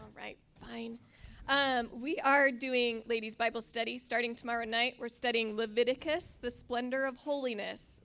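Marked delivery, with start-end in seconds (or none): 1.5-8.0 loud, carrying teacher voice. Real, not acted. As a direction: project to the back of the room like a teacher. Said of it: "Just gonna use my teacher voice".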